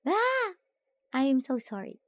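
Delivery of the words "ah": sudden sharp sneeze; sneezing. Real, not acted. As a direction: let out a quick sneeze. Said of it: "I'm so sorry for the sneeze".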